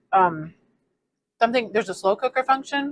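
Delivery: talking while chewing; chewing with mouth full. Real, not acted. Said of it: "I'm chewing with my mouth open".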